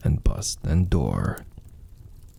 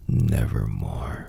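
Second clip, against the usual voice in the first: low, slow, ominous croak; raven voice; 9 semitones lower than usual. Acted. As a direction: drag it out like a dark bird. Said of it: "Quoth the raven".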